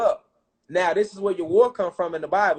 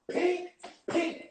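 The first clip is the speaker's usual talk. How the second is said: punch sounds; 9 semitones higher, 10 dB quieter than usual. Retold or imitated.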